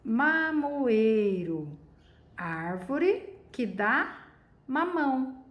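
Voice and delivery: drawn-out reading of mamoeiro; slow dictionary reading. Shown as a demonstration. Teacher slowly reading the dictionary entry aloud. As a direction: read the entry slowly, word by word. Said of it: "aqui, ó".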